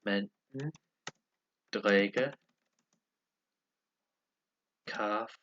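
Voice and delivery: long pauses between each word; careful language-lesson repeat; word-by-word repetition. Shown as a demonstration. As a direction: sound out each word separately. Repeats app's sentence for learners.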